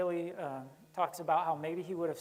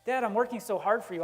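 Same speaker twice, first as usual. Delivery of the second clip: higher, louder aggrieved complaint; indignant older son; 5 semitones higher, 6 dB louder than usual. Acted. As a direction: protest like a wronged son who earned more. Older brother complains to father.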